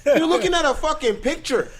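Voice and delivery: put-on loud, high valley girl rant. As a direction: shriek it like an outraged valley girl. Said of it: "talking like a white girl".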